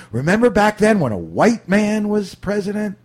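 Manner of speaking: high, swooping mock reminiscence; mock nostalgia. Host parodying nostalgia for one presidential term, mock-wistful. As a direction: exaggerate the fond look back.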